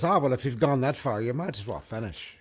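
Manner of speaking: resigned pub owner in amateur Irish; lightly attempted Irish landlord, dropping off at the end; bad Irish accent. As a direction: concede it with a rough Irish lilt. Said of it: "I do a very bad Irish accent".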